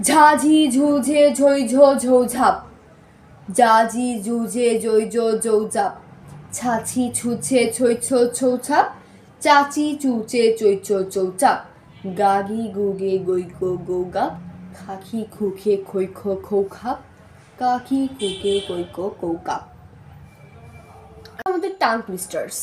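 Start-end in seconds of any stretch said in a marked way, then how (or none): 0.1-5.9 chanting ঝা ঝি ঝু one syllable at a time; syllable drill. Shown as a demonstration. Teacher drilling the class through ঝ syllables, crisp and even. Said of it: "সেই ঝা থেকে এখন আমরা কতে আবার নামবো". 6.6-19.6 descending syllable drill. Shown as a demonstration. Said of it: "এখন আমরা কতে আবার নামবো".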